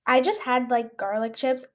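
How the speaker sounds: talking while chewing gum. Real, not acted. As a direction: gum in the mouth. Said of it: "I have gum in my mouth too".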